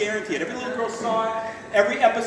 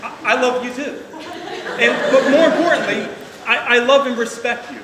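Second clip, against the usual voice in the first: loud, earnest toast to the groom; loud heartfelt; 2 semitones higher, 6 dB louder than usual. Real, not acted. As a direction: declare it to the room. Addressing son-in-law at wedding.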